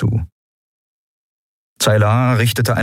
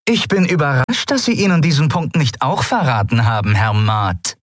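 much higher, biting sarcastic captain; acidic sarcasm; 8 semitones higher than usual. Acted. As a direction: drip acid on every word. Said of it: "Der Sarkasmus in Zaylars Stimme war ätzend wie Säure". (ätzender Sarkasmus)

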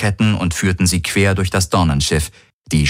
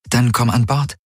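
tender invitation in a lifted voice; gentle; 5 semitones higher than usual. A narrator's reading. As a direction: say it gently, pitched up. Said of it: "sagte sie sanft".

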